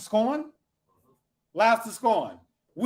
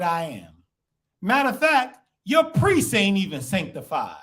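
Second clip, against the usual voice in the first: defiant retort. Pretend. Voicing defiant people to king.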